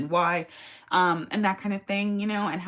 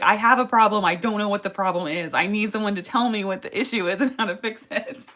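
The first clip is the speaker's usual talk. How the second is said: exasperated plea; 2 semitones higher, 5 dB louder than usual. Retold or imitated. Pleading with phone robot.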